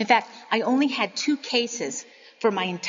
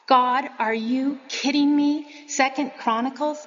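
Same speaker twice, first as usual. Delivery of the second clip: exasperated outburst; 4 semitones higher than usual. Retold or imitated. Preacher retelling complaining to God in her car, louder and disbelieving. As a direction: throw the question at God in half-playful dismay. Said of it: "I actually said out loud in the car".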